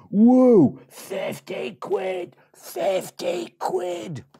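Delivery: very high slow squeal; excited piglets. Acted. Piglets walking down the road, high excited squeal. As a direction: drawl the joy out high. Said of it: "road saying".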